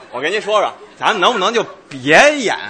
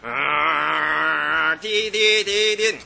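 drawn-out hum into slow sing-song beeps; car engine and horn noises; 3 semitones lower, 5 dB quieter, much slower than usual. Acted. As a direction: imitate a car droning and honking. Acting a car on the road. (模仿汽车的嗡嗡声和喇叭声)

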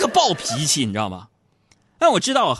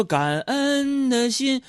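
drawn out very slowly, a touch higher; mock solemn; 10 semitones higher, much slower than usual. What the old man should answer, dragged out very slowly. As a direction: stretch each word like a pious chant. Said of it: "你应该说".

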